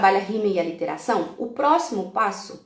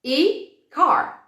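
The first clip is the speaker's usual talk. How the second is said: slow modeled words; 4 semitones higher, much slower than usual. Shown as a demonstration. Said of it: "Então, por exemplo".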